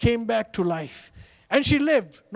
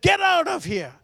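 high sharp shout; chasing the donkey off with a yell; 10 semitones higher, 3 dB louder than usual. A narrator's reading. Villager shouting the donkey away.

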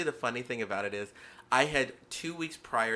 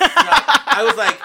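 laughing; 11 semitones higher, 17 dB louder, much slower than usual. Real, not acted. Loud, slow, laughing.

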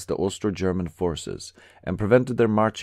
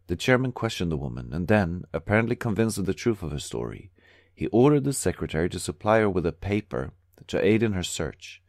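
plain reading voice

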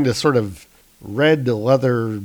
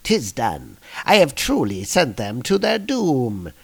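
lightly voiced scheming Loki; a touch of theatrical gloating; gloating villain. Loki gloating to himself over the warriors' doom, mild gloat. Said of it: "gloating to himself".

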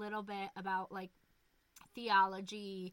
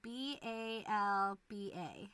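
spelling out slowly; 6 dB louder, slower than usual. Shown as a demonstration. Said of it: "Sound it out".

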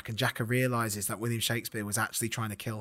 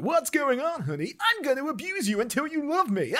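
hammed-up stage actor. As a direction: overplay it like a stage comedy, pitched way up. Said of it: "Taming of the Shrew comes on".

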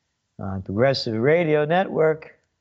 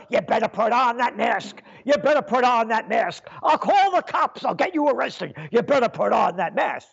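higher mock-threatening mask enforcer; scared and angry; 3 semitones higher than usual. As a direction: bark it like a panicky mask snitch. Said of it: "mask enforcer impression".

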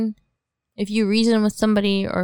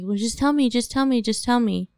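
mildly pushy, slightly raised plea; persistent pestering; 3 semitones higher than usual. Retold or imitated. Guy at school pressing her for the reason, persistent pestering. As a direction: imitate someone nagging, in an insistent repeated lilt. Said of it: "he was so persistent".

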